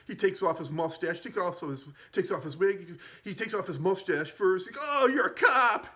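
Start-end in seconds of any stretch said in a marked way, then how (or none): 4.9-5.9 high, loud, half-laughing squeal; squealing gang leader. Retold or imitated. Zed shrieking at the cop in a squealing voice.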